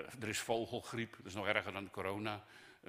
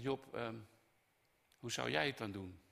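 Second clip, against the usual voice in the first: conversational God. Acted. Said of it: "gaat met Job praten".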